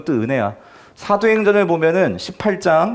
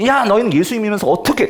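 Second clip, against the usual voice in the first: higher-pitched imitation of a scolding; mock reproach; 5 semitones higher than usual. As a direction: act out an accusing church member. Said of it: "돈 많은 사람들은 그러면서".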